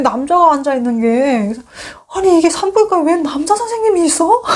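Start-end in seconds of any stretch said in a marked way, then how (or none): 2.1-4.4 high, startled disbelief; shocked surprise. Retold or imitated. Patient finding a male gynecologist, shocked and much higher. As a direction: squeal it in disbelief. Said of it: "너무 놀래가지고".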